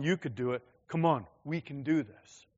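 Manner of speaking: a supportive, beside-you come on; encouraging come on. Shown as a demonstration. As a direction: cheer them on like a partner. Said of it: "not, not come on".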